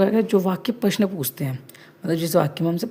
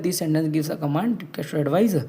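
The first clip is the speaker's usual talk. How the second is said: slow dictation; much slower than usual. Shown as a demonstration. Teacher dictating definition to class.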